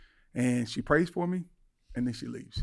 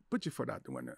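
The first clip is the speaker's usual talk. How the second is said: hushed tempting voice, softer; quiet inner voice; 8 dB quieter, faster than usual. Retold or imitated. Inner voice quietly urging the driver to self-harm. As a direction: murmur it like a dark suggestion. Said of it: "it's like".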